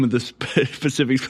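mock Chinese accent breaking into laughter; lightly put-on Chinese accent, cracking up. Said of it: "I cracked myself up with that Chinese accent".

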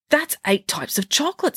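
high, eager princess voice; sweet curious royal girl; cartoon princess.

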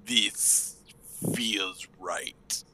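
soft and hushed; softly. Acted. Lizard on the bow, feeling the wind, says it softly. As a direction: let it fall quietly. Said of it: "he says softly".

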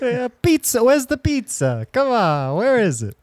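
hammed-up New Yorker raving about Times Square; New York accent. Mocking New Yorkers loving their city, New York accent. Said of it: "my New York accent's getting way worse".

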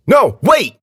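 high, loud plea to stop; frightened shout. A narrator's reading. Girl holds out hands against knife, pleading loudly. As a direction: cry out in alarm.

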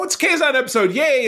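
high, sarcastic cheer. Acted. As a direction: fake excitement, sarcastic. Mock cheer for disliked episode.

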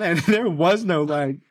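slow, giggling through the words; mortified laughter; laughing. Real, not acted. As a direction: laugh it out in embarrassment. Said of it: "Andrew, you cannot laugh".

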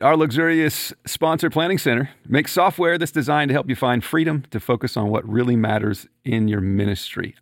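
smooth announcer read; radio voice. Acted. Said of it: "I kick into my radio voice".

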